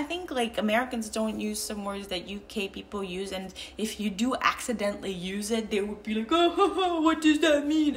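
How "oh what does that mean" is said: high, louder laughing question; mocking laughter. Americans teasing her over a UK word, mock laughing. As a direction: imitate someone laughing at a strange word.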